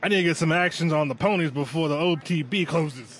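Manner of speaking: hammed-up Southern accent; Southern gentleman voice for a joke. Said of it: "Southern gentleman".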